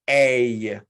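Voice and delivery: A said long and clear as a model sound; teacher modelling the sound A; vowel demo. Shown as a demonstration. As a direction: hold the vowel A for the class to copy.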